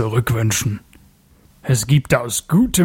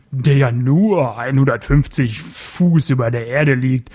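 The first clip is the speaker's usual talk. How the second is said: mocking. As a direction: sneer at the barbarian. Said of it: "des spöttischen Gelächters".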